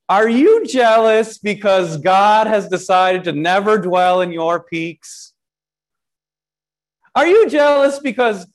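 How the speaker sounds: preacher voicing David mocking Mount Bashan, sarcastic and needling. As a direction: taunt the mountain with mock questions. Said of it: "The tone changes".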